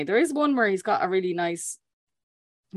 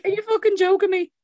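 put-on Italian accent; 12 semitones higher, 3 dB louder than usual. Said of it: "Let's hear that accent".

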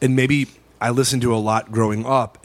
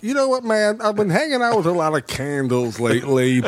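lightly voiced spacey stoner; Jeff Bridges impression; 3 semitones higher than usual. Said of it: "you're like".

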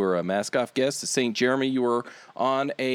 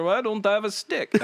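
a hammed-up Canadian accent, pitched up; mock Canadian accent; 8 semitones higher than usual. Podcast host mocks Canadians, in a hammed-up Canadian accent. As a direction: lightly imitate a Canadian. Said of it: "Canadians are out there".

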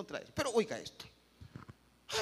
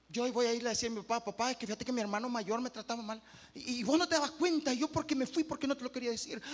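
higher, a touch of pleading whine; whiny excuse; 4 semitones higher, faster than usual. Pretend. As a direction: play the son shifting blame. Mock excuse of blaming son.

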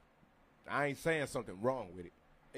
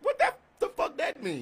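baffled; 13 semitones higher, 9 dB louder, slower than usual. Real, not acted. Baffled by friend's claim.

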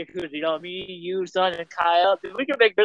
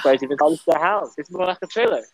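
put-on British accent, sneering at the house; mock like a Brit, lightly; 3 semitones lower than usual. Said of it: "You can do your British voice".

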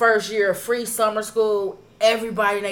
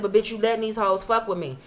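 retold yelling; 6 dB louder than usual. Retold telling off school staff.

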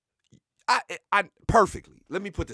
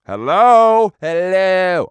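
loud, stretched phone yell; mock impatient hello; 8 dB louder, much slower than usual. Host phoning an unresponsive player, hollering. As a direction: holler down a dead line. Fake call, nobody answering, getting louder.

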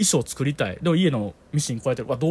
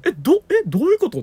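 retold bafflement; 12 semitones higher, 4 dB louder than usual. Baffled at failing the craft toy.

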